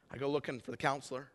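ordinary talk

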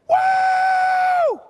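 long, high, loud "woo"; cowboy whoop. Retold or imitated. Buddy whooping as the van tips in a blizzard, wild high whoop. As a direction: let out a wild sustained whoop.

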